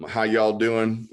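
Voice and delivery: slow, loud Southern drawl. Retold or imitated. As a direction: imitate a drawn-out Southern greeting. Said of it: "I had that Southern drawl".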